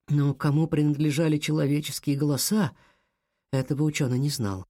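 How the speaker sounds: ordinary delivery, nothing marked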